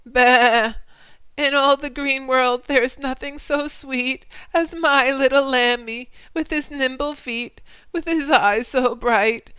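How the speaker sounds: a proud ewe gushing over her lamb; mother sheep. Acted. Mother sheep praising her little lamb, bleating high and loud. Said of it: "heard a mother sheep say".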